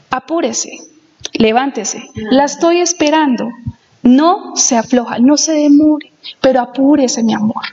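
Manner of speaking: gentle, loving read of the letter; affectionate husband reading his own letter; tender reading. Retold or imitated. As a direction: coax her sweetly, ending on mi amor. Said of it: "la tonalidad con que las digo es diferente".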